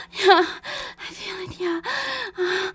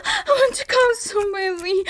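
ordinary delivery

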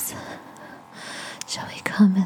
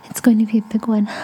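quick, rising excitement; excited; 2 semitones higher, 6 dB louder, faster than usual. Acted. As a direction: speed up, getting carried away. Building to a climax.

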